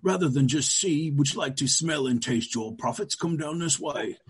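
lightly voiced oily street pimp; a hint of a smooth hustler luring two elves down an alley; half-hearted slick pimp pitch; sleazy pimp Mickey Mac. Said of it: "literally like that".

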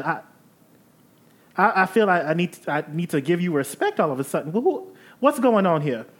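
fussy genteel lady. Acted. Eve's voice held by player.

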